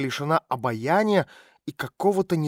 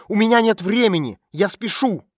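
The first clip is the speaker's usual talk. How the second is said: higher and louder, hurried yell; shouting; 6 semitones higher, 6 dB louder than usual. A narrator's reading. Girl keeps shouting she is in a hurry, loud and high. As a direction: shout her off in a rush.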